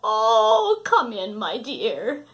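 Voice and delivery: lightly voiced sweet grandma; old grandma voice. Grandma welcomes visitor.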